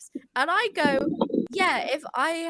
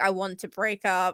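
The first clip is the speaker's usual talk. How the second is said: deep, low, dead-flat monotone; 8 semitones lower than usual. Acting out breaking up with a friend: most monotone voice. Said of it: "in the most monotone voice".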